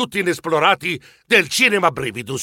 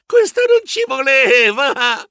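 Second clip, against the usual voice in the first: slower, rising frightened cry; stammering; 6 semitones higher, 4 dB louder, much slower than usual. Acted. Mouse stammers as director is dragged away. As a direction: stammer in dismay.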